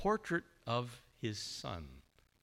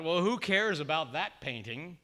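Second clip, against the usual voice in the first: calling out; 5 semitones higher, 5 dB louder than usual. Retold or imitated. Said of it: "someone called out".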